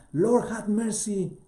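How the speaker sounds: drawn-out, high pleading call; pleading cry. Acted. Father begging Jesus for his son, high slow plea. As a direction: beg the Lord slowly, voice lifted.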